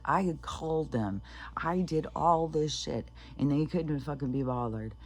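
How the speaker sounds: mildly exasperated, emphatic complaint; imitated pissed-off mom. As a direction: vent lightly as the fed-up mother. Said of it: "The mom is so fucking pissed".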